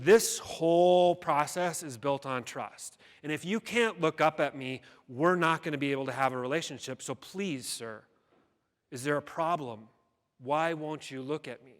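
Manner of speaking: retold exasperated plea, loud and emphatic at first; frustrated. Founder pleading with a man who avoids her eyes, frustrated. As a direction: press the point in frustration, then ease into questioning. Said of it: "finally got so frustrated".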